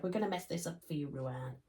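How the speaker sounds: put-on quick, hushed American accent. Voicing the fabric that's coming apart in the tutorial, American accent. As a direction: slip briefly into a soft American voice. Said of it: "I did that in an American accent".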